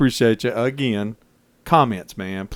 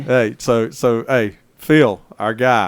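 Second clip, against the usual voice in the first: lightly put-on British accent, slow; a hint of mock British; English accent; 4 dB louder, slower than usual. Cohost trying out his English accent on Phil, lightly put-on. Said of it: "Judge this accent".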